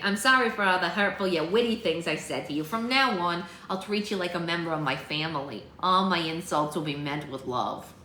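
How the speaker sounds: lightly voiced sassy girl apologizing; playful storybook apology, slowing at the end; Lucy, cheeky apology. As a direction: make amends with a wink in character.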